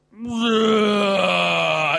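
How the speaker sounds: loud roaring whoa of a crocodile; big monster roar. Retold or imitated. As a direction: roar it like a beast from the water.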